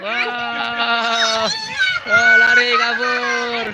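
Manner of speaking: excited call. Real, not acted. Balloon flies away, excited call.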